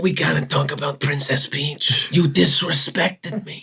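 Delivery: Brando Godfather voice. Pretend. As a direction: mumble like a mob don. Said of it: "You're doing a Brando from The Godfather?".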